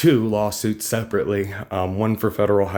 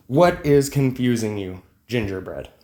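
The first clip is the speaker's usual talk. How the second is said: slow, each word spelled out, What given weight; slower repeat. Retold or imitated. Retelling his reply to a confused commenter, slow and patient. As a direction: repeat it slowly, as if to a child. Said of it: "and I said".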